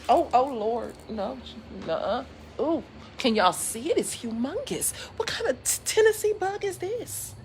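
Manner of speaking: panicked at a huge bug; shrieking, pitch flying up in alarm; startled squeal. Real, not acted. Spots a huge bug on camera.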